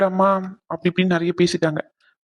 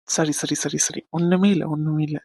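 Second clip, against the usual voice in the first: soothing hush; 3 semitones lower than usual. Acted. He comforts his crying lover.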